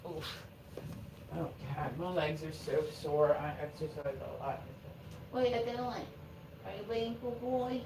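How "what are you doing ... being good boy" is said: high, slow coo to the dog; pet talk. Real, not acted. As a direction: sweet-talk the puppy, stretched out. Talking to the dog.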